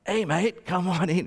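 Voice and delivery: rock singer's rough-edged voice, lightly imitated. Rock singer waving a fan in, sing-style impression. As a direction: put on a rock vocalist's voice. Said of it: "if you know how he sings".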